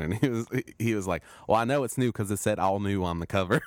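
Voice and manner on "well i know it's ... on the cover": little kid's Southern accent, imitated. Host imitating a kid customer about a comic, Southern accent. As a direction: mimic a Southern kid, amused. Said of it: "he has a Southern accent".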